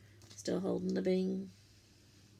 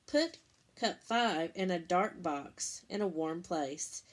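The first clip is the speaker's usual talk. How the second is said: measured, step-by-step read-aloud; walk the kids through each step clearly; reading instructions aloud. Acted. Teacher reading the cup project steps to her class, careful read-aloud.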